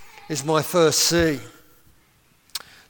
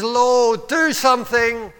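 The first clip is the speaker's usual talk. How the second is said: raised, heartfelt plea; crying out to God; 5 semitones higher, 3 dB louder, slower than usual. Acted. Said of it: "cry. Something from down here".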